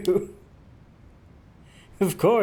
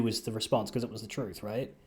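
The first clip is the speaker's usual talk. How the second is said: muttering; 5 semitones lower, 10 dB quieter than usual. Real, not acted. Trailing off to himself.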